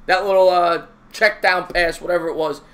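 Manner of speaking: normal talking voice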